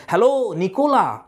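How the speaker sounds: lightly acted calling out; mild mock shout. Petkoff calling his servant Nicola, mild shout. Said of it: "পেটকপ চিৎকার করে নিকোলাকে ডাকছে".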